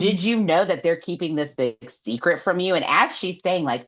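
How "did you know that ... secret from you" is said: high taunting voice; mock taunt. Nesta taunting Feyre about her mate, high-pitched. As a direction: needle her, hammed-up. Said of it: "Nesta looks at her and goes".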